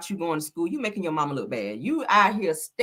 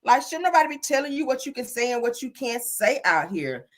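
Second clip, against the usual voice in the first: higher-pitched retold reply; retold advice, high; 8 semitones higher than usual. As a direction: lecture her, pitched up. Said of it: "I said".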